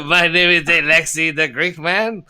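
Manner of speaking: hammy Greek barkeep, giggling through it; lightly put-on Greek accent with a laugh; mock Greek accent, laughing. Bartender introduces himself in a laughing mock Greek accent.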